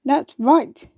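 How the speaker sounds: happy roar. Acted. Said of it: "the dandelion roared happily back".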